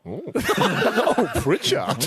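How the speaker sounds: high laughing "oh, oh, Pritchard"; breathy mock delight at the name; mock swooning gasp. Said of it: "just Ross went".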